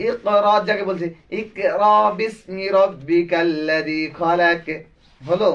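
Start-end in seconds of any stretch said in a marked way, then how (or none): 1.4-4.7 slow recitation with the ক of খালাক bounced the wrong way; wrong qalqalah demo. Shown as a demonstration. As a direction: recite খালাক slowly with a faulty bounce on the final ক. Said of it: "ভুল।". (ভুল কলকলা সহ ধীর তিলাওয়াত)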